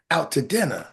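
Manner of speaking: low playful purr; sexy voice. Pretend. Man inviting you out to dinner, sexy voice. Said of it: "put my sexy voice on".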